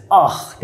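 demonstrated cry of pain, "ahh"; a short ouch-like "ah", mildly acted; mock pained exclamation. Shown as a demonstration. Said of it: "canımız yandığında".

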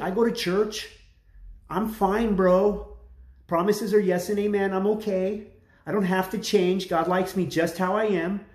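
mock a carefree sinner who thinks he's safe; imitating a smug, careless churchgoer; complacent believer.

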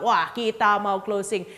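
slow, drawn-out mock awe; mock grand drama. Coach mocking a salesman who dreads closing, mock dramatic. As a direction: stretch it out like a momentous announcement. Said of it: "Ngeri banget".

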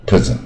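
"prison" with barely any second vowel; "prison" ending on a light n; schwa swallowed. Shown as a demonstration. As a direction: glide lightly through the end of "prison" as "PRIZ-n". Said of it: "呃念很轻带过去".

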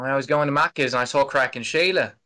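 1 second try at Australian. Pretend. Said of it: "Does that sound a little better?".

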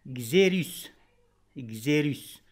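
جزيريس with x said as gz, in French style; French pronunciation. Shown as a demonstration. Teacher showing learners the gz sound of x. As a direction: say جزيريس as French xérus, starting with gz. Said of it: "أو على شكل جز".

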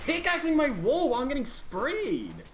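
high, loud furious yell; raging gamer. Real, not acted. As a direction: scream at the screen. Gamer furious while being shot.

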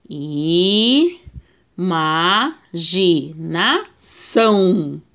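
"Imaginação" split into syllables very slowly; "Imaginação" spaced out syllable by syllable; slow syllable reading. Shown as a demonstration. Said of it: "vamos ver a separação".

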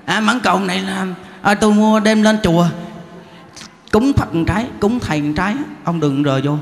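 playing the wife guarding her fruit; mock wife. Wife warning husband off the temple fruit, lightly voiced.

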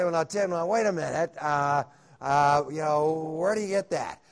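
mock challenge. Preacher retells challenging his friend on the rapture, mock puzzlement. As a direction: replay questioning a friend's claim.

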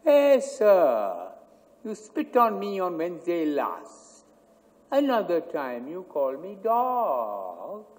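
humble, fawning servant voice; servant's voice. Acted. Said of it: "in a servant's voice, with whispering humbleness".

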